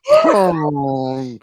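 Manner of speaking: loud, drawn-out plunging noise; comic sound effect of a sinking heart; imitated sinking heart. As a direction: mimic a heart dropping with a big wordless boom. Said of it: "my heart just went".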